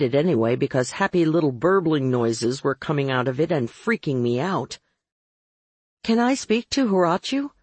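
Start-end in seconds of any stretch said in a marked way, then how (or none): 6.0-7.5 raised pitch, cutting into the chatter. A narrator's reading. Caller interrupting a burbling vamp to reach Horatiu, cutting in. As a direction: cut in over someone's gushing. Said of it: "I finally cut in".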